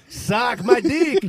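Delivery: a hammed-up phone scammer barking abuse; loud mock insult. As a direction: spit it out slowly at the caller. Second caller swears, retold.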